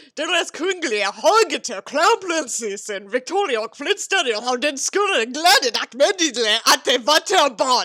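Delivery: exaggerated strong German accent. Speaker reading a Swedish Wikipedia article aloud, in an exaggerated German accent. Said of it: "I sound like I have a really exaggerated German accent".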